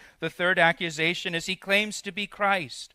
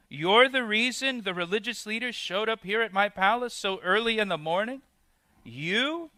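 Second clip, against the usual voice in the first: disbelief; 3 semitones higher than usual. Retold or imitated. Preacher voicing Pilate doubting the beaten Jesus, incredulous. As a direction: ask as if the man before you can't possibly be a king. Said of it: "Maybe Pilate asked the question with disbelief or shock".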